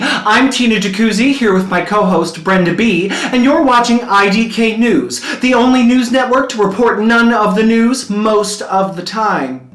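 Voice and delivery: bright, brisk anchor delivery; news anchor read. Acted. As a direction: open the show like a morning news host.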